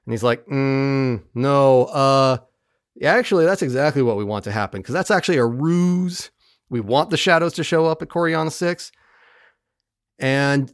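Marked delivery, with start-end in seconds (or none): 0.5-8.9 awkward correction. Retold or imitated. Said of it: "there's, like, awkward coughs all around".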